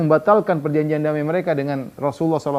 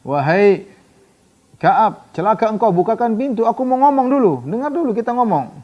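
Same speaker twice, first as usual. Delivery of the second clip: desperate pleading; 7 semitones higher, 3 dB louder than usual. Retold or imitated. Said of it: "Kata Huyai".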